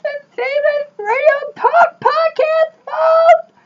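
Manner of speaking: very high, hammed-up radio host voice; over-the-top shock-jock intro. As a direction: belt it out like a manic radio host. Host's shouty radio intro voice.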